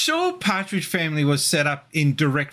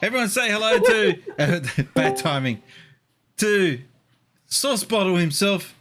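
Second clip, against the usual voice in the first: higher, slower showman intro; grand entrance announcement; 4 semitones higher than usual. Acted. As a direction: drag it out like a host. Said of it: "introduces guest to audience".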